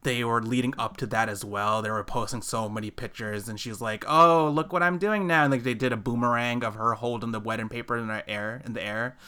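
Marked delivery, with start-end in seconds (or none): 4.1-5.4 mock showing off. Mimics bride showing off pictures.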